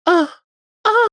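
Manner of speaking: imitated sex-scene moan; half-hearted, put-on moans with a gap between; mock moan. Showing how they voice sex scenes, mock moaning. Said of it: "trying to get the right, like, sounds".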